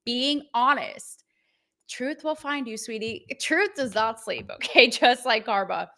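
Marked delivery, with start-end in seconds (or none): 0.1-1.2 slow emphatic repeat. Shown as a demonstration. Host repeating her motto, slow and emphatic. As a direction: draw out being honest, slowly.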